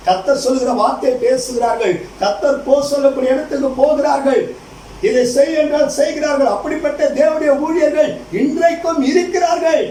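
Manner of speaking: declaiming list that climbs in pitch; rising, emphatic sermon cadence; preaching. Acted. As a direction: build it up like a pulpit proclamation.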